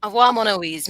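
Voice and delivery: put-on a light, playful French accent; a mild mock French accent for a co-host's farewell. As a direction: toss off a goodbye in a faint French accent. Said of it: "That was a little, little French accent".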